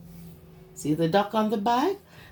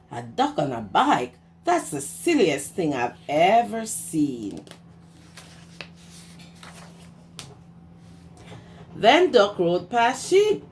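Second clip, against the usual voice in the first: lively storybook read-aloud; reading to children. A narrator's reading. Teacher reading Duck on a Bike to her class, lively storytime voice.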